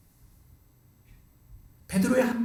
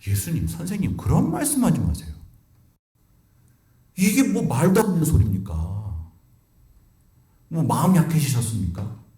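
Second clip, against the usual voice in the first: pleading protest, pitch jumping up on 그런 말씀하지 마세요; protesting Peter. Retold or imitated. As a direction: voice Peter pushing back at his teacher in disbelief. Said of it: "베드로가 항변했다고".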